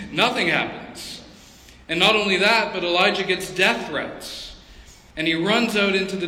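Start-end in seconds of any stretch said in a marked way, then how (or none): 0.0-1.2 laughing. Real, not acted. Laughs at Elijah's anticlimax.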